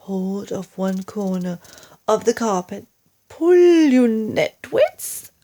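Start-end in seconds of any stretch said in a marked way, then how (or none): 3.3-5.3 high, loud, slow yell to pull; urgent yell. Acted. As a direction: drive them on with a shout. Mugglewump urges the pullers.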